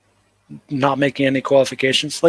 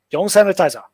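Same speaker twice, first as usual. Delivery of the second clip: Hong Kong English; 2 semitones higher, faster than usual. Retold or imitated. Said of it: "That's how they talk".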